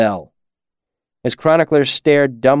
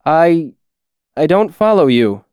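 higher-pitched, hesitant scribe; disconcerted; 4 semitones higher, 4 dB louder than usual. A narrator's reading. Chronicler baffled by the mercenary's strange words, disconcerted. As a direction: falter on the first word, mildly rattled.

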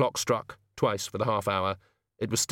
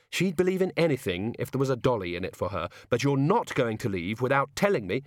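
insistent Susan; 3 semitones higher than usual. Acted.

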